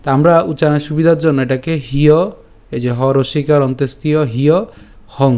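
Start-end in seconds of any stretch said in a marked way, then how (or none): 1.9-5.3 "হিয় হং" split into hi-yo and hong; broken-down pronunciation. Shown as a demonstration. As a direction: sound out "হিয়" as hi-yo, then "হং". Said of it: "এভাবে উচ্চারণ করতে পারি". ("হিয় হং" ভেঙে ভেঙে উচ্চারণ)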